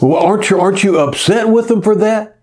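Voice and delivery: high, indignant questioning; mock outrage, voice up high; irate demand. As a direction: demand it, scandalised on her behalf. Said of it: "he grew very, very irate".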